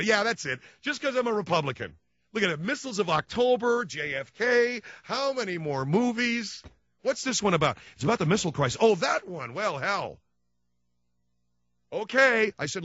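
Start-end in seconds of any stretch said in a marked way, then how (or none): 0.0-10.2 high mock sarcastic wife; a hammed-up sneer as the wife. Wife mocking his movie choice, high sarcastic.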